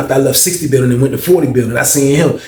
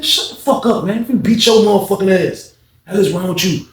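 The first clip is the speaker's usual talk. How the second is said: retold angry snap; 5 semitones higher than usual. Snapping at roommate.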